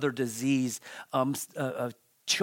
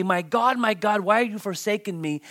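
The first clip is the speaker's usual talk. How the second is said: raised, urgent declaration; Jesus proclaiming; 5 semitones higher, 5 dB louder, faster than usual. Acted. Preacher shows Jesus quoting the psalm to onlookers, in proclaiming voice. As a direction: proclaim it out higher and louder. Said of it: "I think he was proclaiming".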